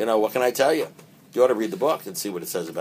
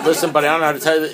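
laughing aside; 6 semitones higher, 9 dB louder, faster than usual. Real, not acted. Imagined frank words to newcomer.

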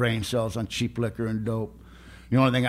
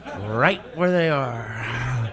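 laughing; much slower than usual. Real, not acted. Joking about losing his lips.

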